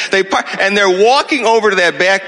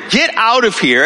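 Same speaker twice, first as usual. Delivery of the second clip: barked command; 6 semitones higher than usual. Retold or imitated. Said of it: "And so I'm barking".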